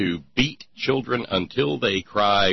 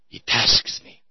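Khan quote; 2 semitones higher than usual. Retold or imitated. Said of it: "Star Trek reference".

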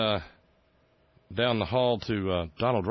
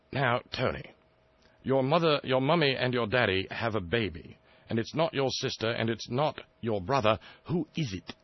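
higher, patronising royal quizzing voice; mock Prince Charles; 4 semitones higher than usual. Prince Charles quizzing Tony Blair, in a mock royal voice. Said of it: "and I said".

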